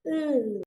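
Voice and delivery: Mm held and let flow out; sustained sound demo. Shown as a demonstration. Teacher modelling the flowing sound. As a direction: hold a steady Mm. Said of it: "let the sound flow out".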